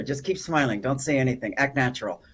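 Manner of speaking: hint of gritted teeth; through gritted teeth. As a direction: speak through clenched teeth. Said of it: "I said that through my teeth to her".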